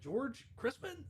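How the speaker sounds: high, drawn-out surprised query; baffled question. Retold or imitated. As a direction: stretch the name out high in disbelief. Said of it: "And he goes".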